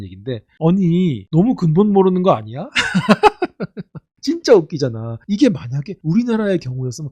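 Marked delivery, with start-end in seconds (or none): 2.7-4.0 high laughing burst, real; burst of laughter. Real, not acted. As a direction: crack up laughing at the absurdity. Laughing at absurd news. (어이없어서 터지는 웃음)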